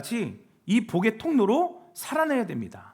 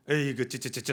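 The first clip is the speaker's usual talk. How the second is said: disapproving tutting; 6 semitones lower, 5 dB quieter than usual. Acted. Mimics disapproving elder tutting.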